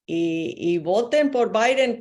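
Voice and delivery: light imitation of a Caribbean Spanish accent, ad-style. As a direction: mimic a Caribbean-accented campaign ad. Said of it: "hicieron su publicidad con acento caribeño". (imitando un leve acento caribeño de anuncio)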